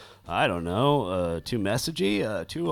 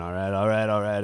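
imitating McConaughey; 2 semitones lower than usual. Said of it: "everybody will just join in".

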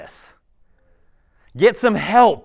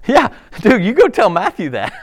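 casual Jesus; 3 semitones higher, 7 dB louder than usual. Pretend. Jesus answering a hater, casually.

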